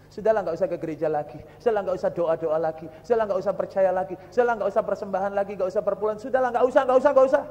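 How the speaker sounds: quick, repetitive nagging that climbs at the end; mock urging. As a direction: rattle off the dismissive urging. Voicing those who urge giving up.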